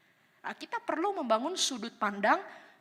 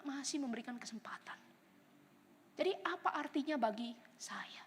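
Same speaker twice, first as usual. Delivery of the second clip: much softer, fading to a whisper by the end; soft, intimate, ending whispered; hushed confession; 10 dB quieter than usual. Retold or imitated. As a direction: say it quietly, like a private admission. Quoting his own reply to objectors.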